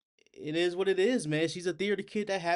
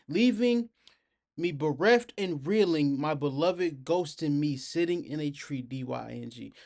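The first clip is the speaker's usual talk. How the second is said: Shakespearean delivery. Retold or imitated. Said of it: "her vocal tones delivers like a Shakespeare play".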